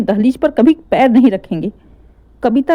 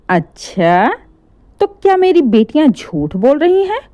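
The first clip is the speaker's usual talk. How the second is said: sarcastic; 4 semitones higher than usual. Acted. Mother sarcastic retort.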